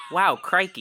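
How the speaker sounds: deadpan Australian "Wow, crikey", no energy; monotone Crocodile Hunter. Pretend. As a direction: say "crikey" flat, in an Australian accent. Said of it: "Crocodile Hunter stuff, but in a monotone voice".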